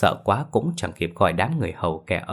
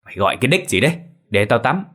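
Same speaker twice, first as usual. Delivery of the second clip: irritated; 4 semitones higher, 3 dB louder, faster than usual. Acted. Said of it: "thì bực dọc".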